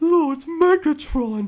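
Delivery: high, loud, pathetic voice. Criticizing how the Beast Wars Megatron sounds, pathetic Beast Wars Megatron impression. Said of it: "Megatron sounds pathetic".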